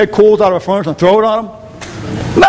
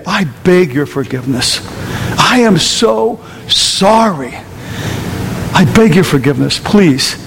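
sincere apology; 5 semitones lower than usual. Acted. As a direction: beg forgiveness gently, from the heart.

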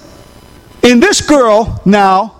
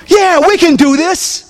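upbeat yes; 6 semitones higher than usual. Acted. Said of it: "what the young lady said".

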